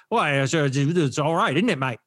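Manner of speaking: put-on a light, slowed British accent, mate-style. Mocking the British students he found hard to understand, light British accent. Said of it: "a bunch of British accents are just like".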